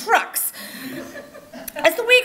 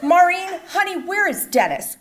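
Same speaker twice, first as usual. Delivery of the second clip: innocent grandma; 6 semitones higher than usual. Retold or imitated. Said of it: "so very innocently implored".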